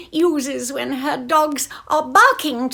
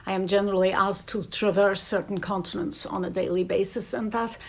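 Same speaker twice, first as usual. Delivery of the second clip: Southern Irish accent; 2 semitones lower than usual. Shown as a demonstration. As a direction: speak in a southern Irish lilt. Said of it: "more at home with the Southern accent".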